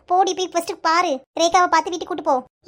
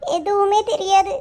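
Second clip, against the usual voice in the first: slow, upset answer; tearful; slower than usual. Acted. Tulasi tells her boss she knows nothing of her father, tearful. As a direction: draw the words out sadly. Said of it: "feel பண்ணி அழுதுட்டு இருக்கீங்க".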